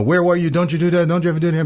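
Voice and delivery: high, scolding parent voice, pitched well up; angry parent. Retold or imitated. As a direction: scold the lost toddler with high-pitched alarm. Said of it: "The first reaction of the parents is angry".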